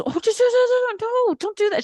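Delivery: squeaky high, flustered friend voice; high mock friend. Comedian mimicking her friend scolding her, high and fussy.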